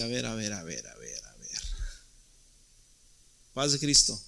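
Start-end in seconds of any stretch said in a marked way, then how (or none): 0.0-1.6 dropped way low and softer, a mock-stern wife. Pastor imitating his wife calling him out, low mock-stern voice. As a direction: sink the voice deep and quiet, like his wife about to set him straight. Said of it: "ahí está y me dice".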